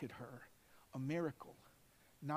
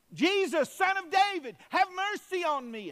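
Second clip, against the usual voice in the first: much higher, louder desperate cry; shouted plea; 14 semitones higher, 11 dB louder than usual. Acted. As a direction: shout over the crowd to reach Jesus. Blind man shouting to Jesus.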